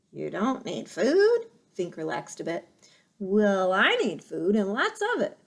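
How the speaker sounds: a hint of a sly, pushy fox. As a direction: lean in and bargain. Fox bargaining with robot.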